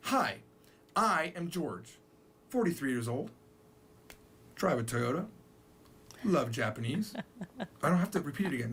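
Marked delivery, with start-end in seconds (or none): 0.1-7.1 Japanese style introduction. Shown as a demonstration. Teacher shows Japanese style dropping "I". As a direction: list the facts without the subject. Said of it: "they talk like this".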